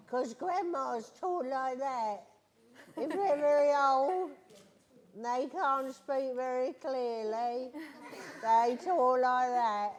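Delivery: slow, lightly voiced old granny; Rugrats Grandma voice. Shown as a demonstration. Telling children about her cartoon role, slow granny voice. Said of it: "That's my grandma voice".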